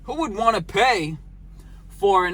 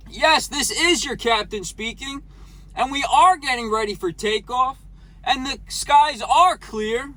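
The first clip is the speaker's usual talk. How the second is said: bright, higher pilot PA voice; airline captain announcement; 3 semitones higher than usual. Pretend. Redoes captain announcement, laughing.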